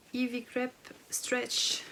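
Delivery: Ivy Crepe Stretch said slowly with a heavy French accent, every sound frenchified; French accent on English. Shown as a demonstration. Vlogger reading out an English fabric name, slow and self-mocking in a French accent. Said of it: "avec mon super accent".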